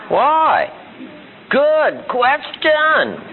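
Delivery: put-on high childlike whine; kid voice. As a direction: mimic a little kid asking. Imitating a kid asking why.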